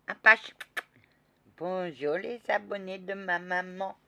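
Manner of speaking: put-on high, loud child's yell; a small girl yelling at the knight; loud child shout. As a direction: belt it out like a little girl.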